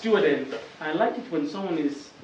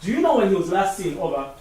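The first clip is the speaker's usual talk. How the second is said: walkie-talkie voice; 3 semitones higher, 6 dB louder than usual. Pretend. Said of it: "take my walkie-talkie".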